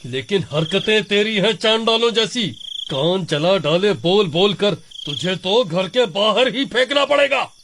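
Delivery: high, heated scolding of his wife; husband losing his temper at his wife; angry. Acted. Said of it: "Ramesh को गुस्सा आ जाता है". (गुस्से में डांटते हुए)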